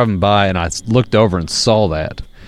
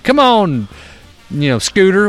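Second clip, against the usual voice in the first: calling the dog; 9 semitones higher than usual. Retold or imitated. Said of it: "he's like".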